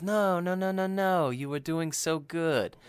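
lightly chide, as if let down; mock reproach. Imitating Hannibal chiding the trainee, mock reproach.

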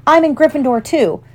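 put-on high, eager boy stumbling over his request; hopeful. A narrator's reading. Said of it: "he said, raising the camera hopefully".

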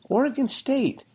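high, loud disbelief; can you believe this team; incredulous. Real, not acted. Incredulous rant about Oregon State.

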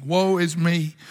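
a hint of the undone prophet; Isaiah's lament. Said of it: "This is Isaiah speaking".

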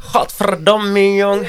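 slow, high, broad Hague curse; Hague dialect swearing. Shown as a demonstration. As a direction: drag out Godverdomme in plat Haags. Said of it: "mensen die plat praten als ze schelden".

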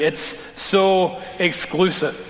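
a slow, drawn-out "It's so exclusive" with "so" leaned on; mock complaint. Pastor voicing the critics' complaint, slow and weary. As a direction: mimic a critic, dragging out "so". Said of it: "I've been told that's exactly the problem".

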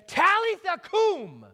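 put-on high, loud Aramaic call to a dead girl. Jesus calling loudly to the dead girl in Aramaic. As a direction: call her back to life in Aramaic, ringing out. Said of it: "he calls out to her".

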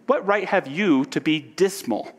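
lifted, challenging question; challenging retort. Acted. Nephew retorting to his uncle Scrooge, challenging. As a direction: throw the question back at him, pitch up. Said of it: "returned the nephew".

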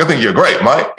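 light, jokey attempt at British, landing near Australian; British accent. Retelling a British musician's praise after the talk, mock British accent. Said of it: "he's British, so he's like".

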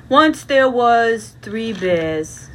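put-on slow story voice for a child; bedtime story. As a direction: read it slowly, like a bedtime tale. Bedtime story for Baby Bear.

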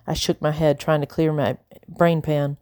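ordinary delivery, nothing marked

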